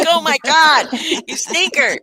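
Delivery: high, loud playful mock shock; mock outrage. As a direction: scold him in fond pretend horror.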